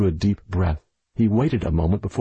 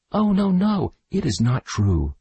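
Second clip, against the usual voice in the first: frightened denial; 10 semitones higher than usual. A narrator's reading. Girl denies accusation.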